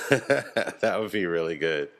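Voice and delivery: short real laugh, then talk on; amused, with a laugh leading in. Real, not acted. Laughs at own imagined scene.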